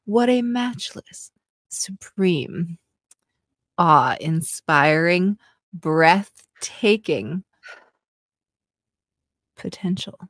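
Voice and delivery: slow breathy seductive reading; sexy voice. Pretend. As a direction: savour each word seductively. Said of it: "reading this in a sexy voice".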